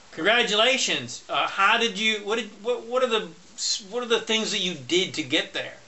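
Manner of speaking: a hint of ironic cheer; mock congratulations. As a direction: congratulate them with a playful ironic lift. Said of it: "if somebody comes up to you and says".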